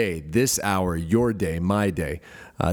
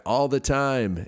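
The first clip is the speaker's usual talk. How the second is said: raised-pitch group response, no real shout; mock yell back; 5 semitones higher, slower than usual. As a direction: imitate children answering the call. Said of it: "yell back".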